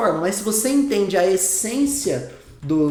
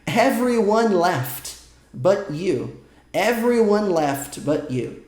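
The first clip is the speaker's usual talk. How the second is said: slow model reading; much slower than usual. Shown as a demonstration. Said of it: "Essa frase em inglês diz".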